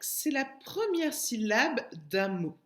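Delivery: première lifted and stretched, said slowly; teacher stress on première. Shown as a demonstration. Teacher defining syllabe d'attaque, stressing première slowly. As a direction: lean on première so children catch it. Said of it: "Une syllabe d'attaque".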